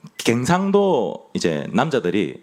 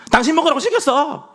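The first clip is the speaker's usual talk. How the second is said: gruff, louder, much higher bark; tsundere grandpa; 4 dB louder than usual. Retold or imitated. Old man in the ad shows his wife he cares, gruff loud bark. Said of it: "츤데레죠".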